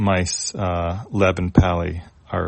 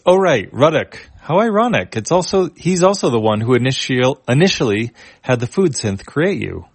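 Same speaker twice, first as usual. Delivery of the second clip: higher, ironic voice for Etana; 5 semitones higher than usual. Acted. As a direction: point out the irony, pitched up. Etana reacts to the mice.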